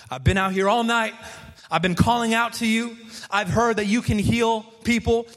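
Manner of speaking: begging Jesus, building from earnest to near-crying high; desperate plea. Retold or imitated. Mother pleading with Jesus.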